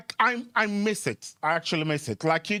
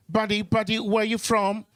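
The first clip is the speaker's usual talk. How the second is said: higher, louder chummy call; mock friendly Aussie; 7 semitones higher, 4 dB louder than usual. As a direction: hail a stranger cheerily. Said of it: "acted Aussie asking".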